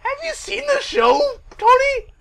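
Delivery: very high-pitched, rising to a loud call; mock squeal. Co-host calling out to Tony, mock squeal.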